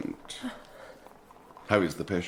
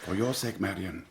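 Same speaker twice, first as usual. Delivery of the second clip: softer, lower, oily charm; silky feigned tenderness; 3 semitones lower, 5 dB quieter than usual. Acted. Fosco softly flattering Marian, quiet and oily. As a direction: purr it like false devotion.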